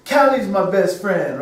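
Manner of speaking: put-on mildly childish, stressing Mommy's; pouting little boy. Little son punishing daddy, mild childish pout. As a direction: sulk and pick Mommy's instead. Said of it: "He'll say".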